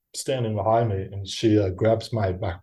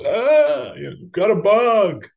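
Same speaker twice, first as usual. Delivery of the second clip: high, loud mock-panicked yelp; comic bug freak-out, pitched way up; alarmed man; 11 semitones higher, 4 dB louder, much slower than usual. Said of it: "So he goes".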